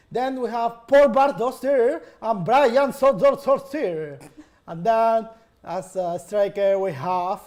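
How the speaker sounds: slow, drawn-out announcer build; hammed-up host voice stretching out the last name; game show host. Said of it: "that's on point".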